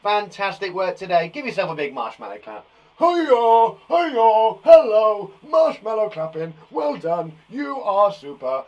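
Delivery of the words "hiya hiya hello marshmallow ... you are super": loud high cheering call; loud, high cheer for the class; cheery shout. Acted. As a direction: cheer it out loudly to the kids. Cheering marshmallow clap.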